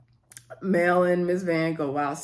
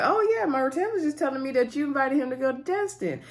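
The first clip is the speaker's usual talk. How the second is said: hiding annoyance; 6 semitones higher than usual. Retold or imitated. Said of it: "Van was looking pissed and inside".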